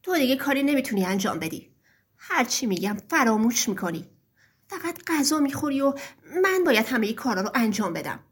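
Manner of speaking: a touch of annoyed grumbling. Acted. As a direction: nag the old father with resentment.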